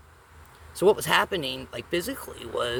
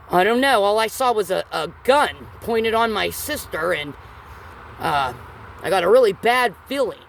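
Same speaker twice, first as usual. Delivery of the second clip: panicked sister; 5 semitones higher, 5 dB louder than usual. Retold or imitated.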